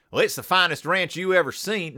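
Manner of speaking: tentative, not very good Texas accent. Shown as a demonstration. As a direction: try on a Texas accent for size. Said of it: "I'm gonna do a Texas accent".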